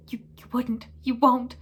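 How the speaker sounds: breathless, panicked gasp. Acted. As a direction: gasp it out in fear. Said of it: "gasped Pettigrew".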